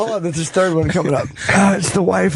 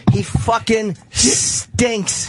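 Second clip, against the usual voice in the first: slow, higher, emphatic put-down; drawn-out disgust; 4 semitones higher, much slower than usual. Real, not acted. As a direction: stretch it out, each word its own verdict. Disgusted verdict on the comic strip.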